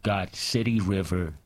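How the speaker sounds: measured, deliberate poem recital; poetry reading. Acted. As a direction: read it like a performance poet. Reads his poem aloud.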